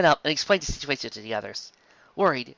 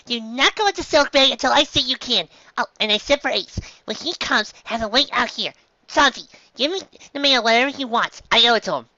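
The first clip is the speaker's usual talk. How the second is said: put-on high young reindeer doctor, earnest; high, brisk little doctor voice; Chopper; 11 semitones higher than usual. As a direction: give orders as a small, serious doctor.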